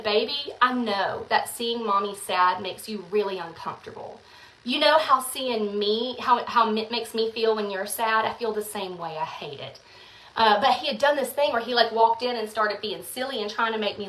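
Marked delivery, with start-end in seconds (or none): 0.0-9.8 soft, gentle, trailing much quieter; tender explanation. Retold or imitated. Mom gently telling her son she feels it too. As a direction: explain lovingly to a child. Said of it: "I said".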